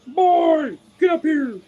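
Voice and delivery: high, loud pet call; summoning the dog. Retold or imitated. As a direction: squeal an excited summons to the dog. Calling dog onto him.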